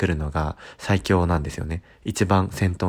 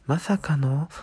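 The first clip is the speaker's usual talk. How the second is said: surprised gasp; 9 semitones higher, slower than usual. Pretend. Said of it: "え、嘘っていう声がね".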